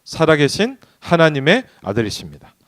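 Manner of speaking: loud, slow, ringing Bible reading; scripture read with force. Acted. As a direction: proclaim the verse slowly to the congregation. (크고 느리게 성경을 선포하듯)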